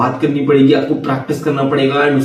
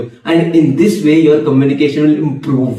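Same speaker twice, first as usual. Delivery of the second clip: slow and deliberate; much slower than usual. Acted. Summing up the advice.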